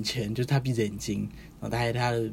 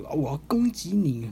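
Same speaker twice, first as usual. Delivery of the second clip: hammed-up villain; 5 semitones higher than usual. Demon king attacks.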